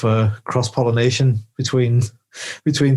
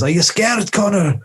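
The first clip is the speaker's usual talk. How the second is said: higher-pitched mock film character; Connor's friend; 7 semitones higher than usual. Friend turns to Connor before battle, mock film voice. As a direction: play the concerned battle companion, pitched up. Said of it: "Connor's friend turns to him and he goes".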